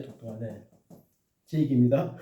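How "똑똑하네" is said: 똑똑하네 repeated much softer, falling away; soft echo. Shown as a demonstration. Teacher echoing praise for a child, much softer. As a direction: murmur 똑똑하네 to yourself as an afterthought.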